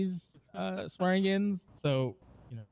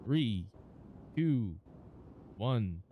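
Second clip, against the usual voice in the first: fight countdown; 5 semitones lower, 4 dB quieter, much slower than usual. Acted. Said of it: "on my count".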